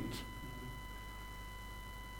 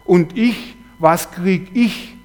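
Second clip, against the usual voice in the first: plaintive inner voice; slower than usual. Retold or imitated. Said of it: "eine Stimme".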